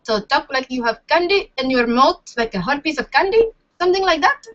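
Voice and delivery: Indian accent, as if talking round candy. Shown as a demonstration. Following an aunt's tip for accents, attempted Indian accent. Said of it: "if I want to sound Indian".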